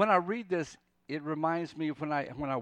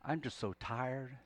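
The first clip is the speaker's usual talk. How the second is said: tired prayer, broken by pauses; worn-out plea; slower than usual. Acted. Worn-out Jonah praying to the Lord, wearily pleading. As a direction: plead gently, with little strength left. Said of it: "I get the sense that he's saying".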